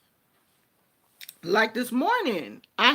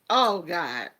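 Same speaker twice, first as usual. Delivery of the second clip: usual speaking voice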